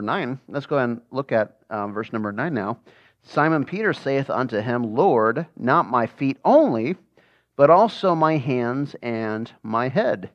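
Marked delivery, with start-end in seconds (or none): 3.2-10.3 scripture reading. Acted. Teacher reads scripture aloud to the Bible class, slow and solemn. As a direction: read the verses slowly and solemnly.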